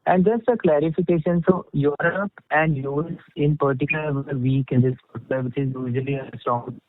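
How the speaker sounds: muffled voice, as through a hand; talking through a covered mouth. Real, not acted. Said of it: "you're sounding muffled".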